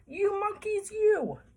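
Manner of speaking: high-pitched, indignant storybook scolding; angry peddler. A narrator's reading. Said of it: "this made the peddler angry".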